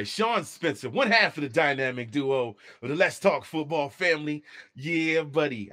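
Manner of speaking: mild impression of the buddy's hype call; a hint of an excited sports podcaster; Sean Spencer impression. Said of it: "that's my Sean Spencer impersonation".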